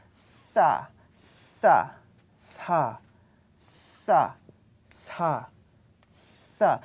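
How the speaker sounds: sa with a stronger, longer hiss; tensed sa. Shown as a demonstration. Teacher demonstrating double sa. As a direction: push air longer through the teeth on sa. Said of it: "So you use more strength".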